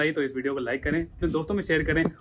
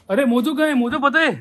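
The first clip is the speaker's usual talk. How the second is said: high, raised-voice questioning; urgent questioning; 9 semitones higher, 4 dB louder than usual. Real, not acted. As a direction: demand to know where the pet is, pitched way up. Urgently asks after the missing pet. (बेचैनी से ऊँची आवाज़ में पूछते हुए)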